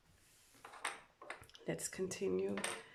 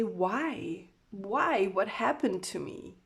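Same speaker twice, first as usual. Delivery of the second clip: anguished plea; 5 dB louder, slower than usual. Acted. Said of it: "hearing them say".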